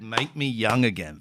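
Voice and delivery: slow, understated quoted cry; mildly moved, slow retelling; retold plea. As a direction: draw out an imitated plea. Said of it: "in my father's voice".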